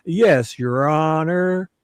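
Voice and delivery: greasy, drawn-out sycophant; slimy prosecutor voice. Pretend. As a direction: ooze it like a slimy lawyer. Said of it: "extra slimy and greasy".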